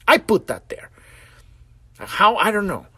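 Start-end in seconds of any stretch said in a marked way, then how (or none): 0.1-0.9 louder, firmly claiming it: "I put that there"; firm admission. Shown as a demonstration. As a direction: stand up and own it out loud. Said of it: "repeats the admission louder".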